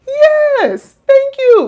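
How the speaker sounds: loud, very high cry of thanks; exultant agreement. Acted. Reacting to a therapist who understands, exultant high shout. Acts being finally understood.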